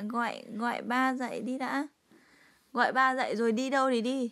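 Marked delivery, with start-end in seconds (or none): 2.7-4.3 raised urging. Real, not acted. Mother urging child, raised voice.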